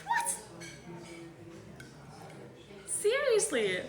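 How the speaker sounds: floored by the news, pitch jumps up; real amazement; stunned disbelief. Real, not acted. Shocked at friend's word.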